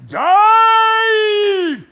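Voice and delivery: huge high roaring charge; rally the squadron into the dive; battle cry. Acted. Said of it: "I just said".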